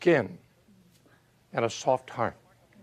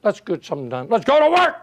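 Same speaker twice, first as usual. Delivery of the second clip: eager rallying cry. Retold or imitated. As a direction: rise from a mutter to a cry to work. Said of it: "Some of these days".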